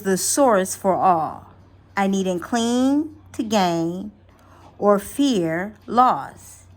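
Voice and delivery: affirmation. Acted. Reads money affirmation.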